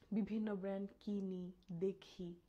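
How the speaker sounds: breathy real whisper. Real, not acted. Whispering so her sleeping mother-in-law won't wake. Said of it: "আমি অনেক আস্তে কথা বলতেছি".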